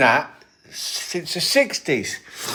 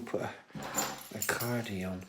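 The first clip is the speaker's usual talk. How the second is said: put-on northern accent; 5 semitones lower, 14 dB quieter than usual. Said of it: "I do accents".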